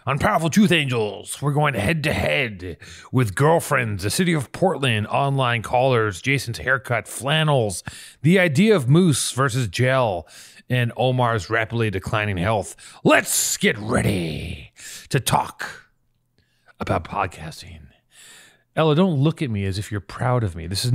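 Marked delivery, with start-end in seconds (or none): 0.1-12.8 announcer-style lineup read; host announcing tonight's topics, slowing the opening words; show intro. Acted. Host opening the podcast to listeners, announcer read. 13.0-17.8 mock ring-announcer line, whispered; whispered hype. Host teasing listeners with a whispered fight-night intro.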